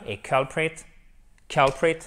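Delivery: culprit with the weight on CUL; stress on first syllable. Shown as a demonstration. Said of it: "Avec l'accentuation sur la première syllabe". (accent sur la première syllabe de culprit)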